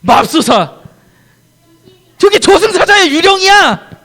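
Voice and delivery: high, loud, slow ghost-fright cry; hammed-up terror for the kids; terrified disciples. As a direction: gasp it out as if seeing a ghost. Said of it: "제자들이 그걸 보고 뭐라 그랬을까요?".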